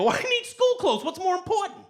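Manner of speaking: very high, whiny protest; teen arguing back at his mother over school clothes; squeaky teen whine. Retold or imitated. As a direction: plead like a bratty teenager.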